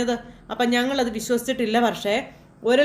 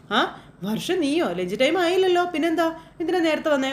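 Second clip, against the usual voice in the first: playful teasing; 5 semitones higher than usual. Retold or imitated. Sreekanth teasing his wife Varsha.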